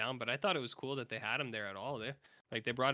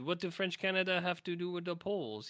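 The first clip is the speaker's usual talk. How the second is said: quoting Johnny in a higher put-on voice; imitating Johnny with a French Canadian lilt; mock French Canadian; 6 semitones higher than usual. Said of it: "He said".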